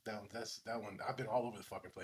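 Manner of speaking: light Tracy Morgan impression. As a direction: rattle it off fast and low. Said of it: "Tracy Morgan".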